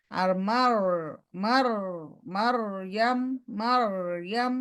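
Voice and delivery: slow, trilled heavy r in মারইয়াম. Shown as a demonstration. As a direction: hold the thick rolled r of মারইয়াম. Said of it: "heavy". (ভারী র দিয়ে মারইয়াম)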